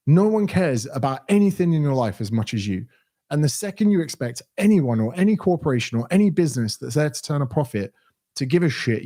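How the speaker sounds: emphatic, annoyed lecture; exasperated rant. Real, not acted. Streamer warning viewers about profit-driven businesses, exasperated. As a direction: press the point with real irritation. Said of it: "you're genuinely pissing me off".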